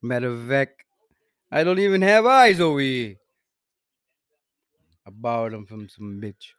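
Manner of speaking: lightly put-on Italian wiseguy; deadpan mob boss musing; mock mobster accent. Mobster character answering about colorblindness. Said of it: "Yo, your accent just".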